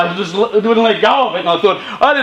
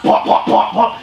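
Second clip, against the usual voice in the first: ordinary talk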